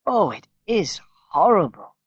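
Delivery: disgusted. A narrator's reading. Dying mother tasting drugged milk.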